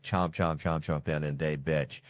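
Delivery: lightly voiced, slightly soft Denzel Washington chomping impression; a hint of a tough-guy movie line, chewing each chomp. Comic shows the room his Denzel, low-key. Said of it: "This is my impression of Denzel Washington".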